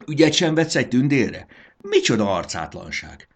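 high, loud burst of indignation; outraged cry. A narrator's reading. Fairy ignored by the caterpillar, crying out in outrage. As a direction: cry out, affronted. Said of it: "kiáltott".

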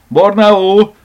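high, loud call to a pet; excited, ringing summons; shouting. A narrator's reading. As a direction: call out for the cat at full voice. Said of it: "kiáltotta".

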